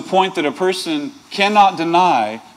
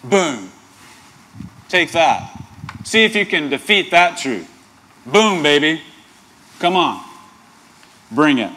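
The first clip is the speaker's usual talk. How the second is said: mock mic drop. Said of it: "It's like".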